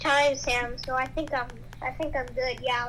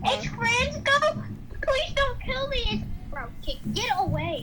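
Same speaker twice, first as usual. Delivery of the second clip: high-pitched mock panic; panicked; 8 semitones higher than usual. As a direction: squeal like you're being chased. Chased in game, begging.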